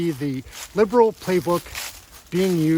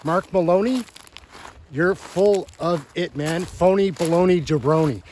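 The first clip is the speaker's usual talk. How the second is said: scornful insults. Real, not acted. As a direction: spit out the insults word by word. Commentator insults the committee member.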